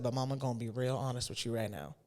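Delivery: imitating a Southern mama's frank talk; lightly voiced Southern accent. Mom getting honest with an upset child, Southern accent. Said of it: "in her Southern accent".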